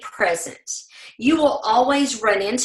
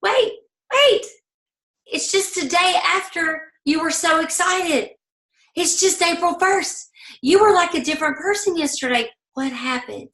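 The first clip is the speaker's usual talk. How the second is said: God's surprised voice; 6 semitones higher than usual. Retold or imitated. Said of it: "God's up there going".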